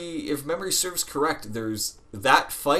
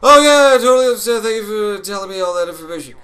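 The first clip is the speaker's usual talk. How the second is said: much higher, much louder overly eager mock politeness; fake agreement; 7 semitones higher, 9 dB louder, faster than usual. Kid pretending to obey the museum worker, loud mock-sweet. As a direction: gush fake compliance before bolting. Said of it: "And I was like".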